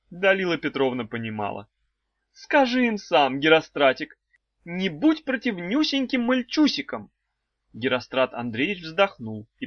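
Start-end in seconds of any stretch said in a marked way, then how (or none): 2.3-7.1 high, sing-song wife voice; a high cooing old wife; wife's high voice. A narrator's reading. Wife teasing the trapped children, high and cooing.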